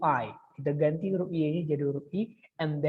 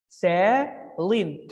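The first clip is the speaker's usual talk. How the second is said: name split into two parts; syllable by syllable. Shown as a demonstration. Teacher counts two syllables for students, syllable by syllable. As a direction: separate each syllable for counting. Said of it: "two syllables".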